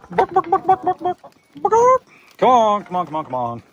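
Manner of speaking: very high clucking call; chicken call. Real, not acted. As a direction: cluck them in like a hen.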